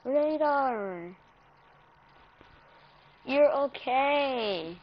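calm the crying dog down gently; soft reassurance. Real, not acted. Owner soothing crying dog Radar, soft and slow.

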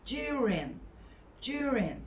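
"During" as "jew-rin", no hard g; soft j in during. Shown as a demonstration. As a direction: start "During" with a light j sound. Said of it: "Hafif böyle c".

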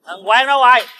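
loud, high shout for someone; calling out angrily. Acted. Drunk creditor arriving at his friend's house, shouting for him. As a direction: holler his name to summon him out.

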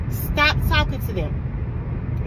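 put-on slow, emphatic instruction to a child; firm retold warning. Mother recounting how she warned her son off troublemaking kids, firm and slow. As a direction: stretch the command out deliberately.

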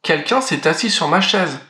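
lightly voiced middle bear. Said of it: "de sa voix moyenne".

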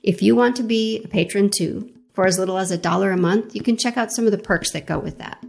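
measured, scripted host read over music; podcast intro read. Acted. Host introduces a guest to podcast listeners, scripted intro read. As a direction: introduce the guest with deliberate phrasing.

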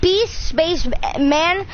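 slow, deliberate spelling. Shown as a demonstration. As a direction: spell it out slowly. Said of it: "capital B".

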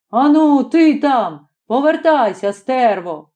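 retold foreman yelling under the engine; imitated shout. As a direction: bark the order up at him. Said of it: "прийде який чорт і кричить".

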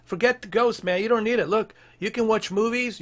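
ordinary talk

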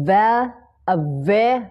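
"ava-" broken off on a clear v syllable; V-sound pronunciation. Shown as a demonstration. Teacher isolating V for learners, syllable drill. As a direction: drill "ve-" with a distinct v. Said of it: "เป็นเสียง V นะ".

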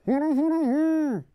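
high, loud, muffled mumble through a mask; Pyro voice. Shown as a demonstration. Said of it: "my really bad pyro voice".

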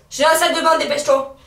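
from another room. Real, not acted. Calling from the bathroom.

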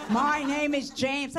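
slow, mock-indignant correction; pissed-off husband. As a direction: spell it out slowly like an irked husband. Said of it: "He gets so pissed".

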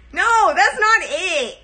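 high, loud, drawn-out no; exaggerated no. Trying out voices, rejecting her own take loudly.

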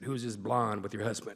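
mischievous champ impression; Muhammad Ali. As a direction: lightly imitate the boxer pulling a prank. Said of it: "gonna do my Muhammad Ali impression".

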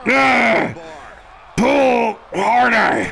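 slow shout. Acted. Straining in the fight.

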